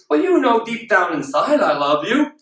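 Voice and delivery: slow, drawn-out mock excuse; half-hearted reassurance. Partner excusing themselves to their other half, half-hearted reassurance. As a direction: play a partner's token declaration of love.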